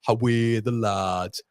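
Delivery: slow Geordie cheer at normal pitch; attempted Geordie accent. Shown as a demonstration. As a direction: draw out the Geordie "How are the lads". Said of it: "Is there a difference there?".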